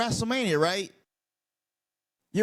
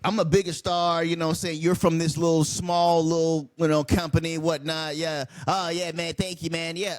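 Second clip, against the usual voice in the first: imitating a smug, lower condescending star; 4 semitones lower than usual. To the smaller-company guy, a lower condescending mock. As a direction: talk down to him like a bigger star. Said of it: "the condescending nature of Seth".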